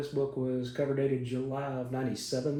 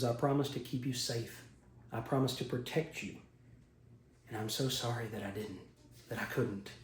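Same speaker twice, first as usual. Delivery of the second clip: soft sorry apology; 6 dB quieter than usual. Acted. Jolt says sorry to the monsters she couldn't save, quiet and regretful. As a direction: apologize softly, as if it was your fault.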